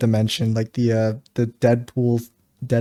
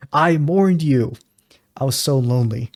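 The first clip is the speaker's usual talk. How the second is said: Trevor line imitation. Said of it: "Trevor dialogue to Michael".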